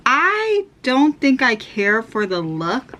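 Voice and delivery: talking around candy; chewing while speaking; mouth full. Real, not acted. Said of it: "I have a starburst in my mouth".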